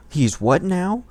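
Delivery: high startled yell; shocked yell. Acted. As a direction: yell it in disbelief. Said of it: "I heard someone yell".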